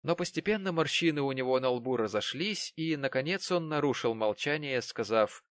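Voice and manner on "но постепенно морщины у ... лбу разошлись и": plain reading voice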